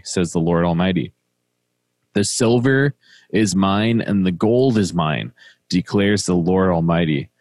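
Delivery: measured, even reading of the prophet's words; scripture reading. Acted. Co-host reads the devotional passage to his partner, solemn reading.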